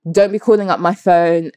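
imitating grandmother's thick African accent. Grandmother warning off a caller, lightly imitated African accent. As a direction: put on a light version of an African elder's accent. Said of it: "In her thick accent".

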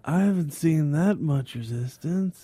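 slow, soft dry deadpan; lightly voiced dry comic; Todd Barry-ish deadpan. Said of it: "Very Todd Barry-ish".

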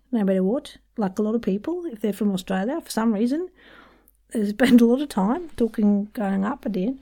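upspeak, pitch swinging up on PEOPLE and REASON; rising sentence ends. Shown as a demonstration. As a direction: lift WHAT and PEOPLE like questions. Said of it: "go up at the end".

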